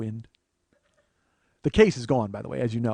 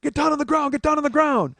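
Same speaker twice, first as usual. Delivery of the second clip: cop yelling; 12 semitones higher, 6 dB louder than usual. Retold or imitated. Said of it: "they go".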